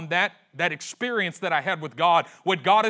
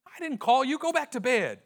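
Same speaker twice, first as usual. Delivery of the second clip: dismissive priest; 9 semitones higher than usual. Acted. Eli denying it.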